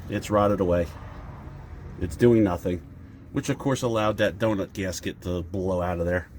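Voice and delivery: stuffy nose from a cold; blocked nose. Real, not acted. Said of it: "I'm sorry if I sound a little stuffy".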